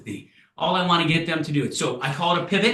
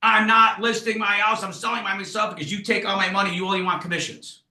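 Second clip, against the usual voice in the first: stubborn fisbo; 4 semitones higher than usual. Acted. Seller refusing to list his house, defiant. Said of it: "And then he says".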